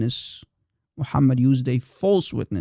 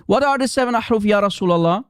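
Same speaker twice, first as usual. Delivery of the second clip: higher-pitched, insistent questioner's voice; eager questioner; 5 semitones higher, faster than usual. Acted. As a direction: call out the question like a keen follower. Voicing a questioner pleading with the prophet.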